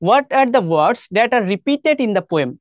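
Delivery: very slow, word by word English reading; reading aloud slowly. Shown as a demonstration. Teacher reads the worksheet question slowly to her class. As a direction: read the question slowly so every word lands. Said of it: "reads the question aloud".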